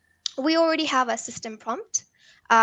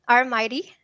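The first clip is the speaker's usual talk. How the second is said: pirate voice; 4 dB louder than usual. Pretend. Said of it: "excuse my pirate, um, voice".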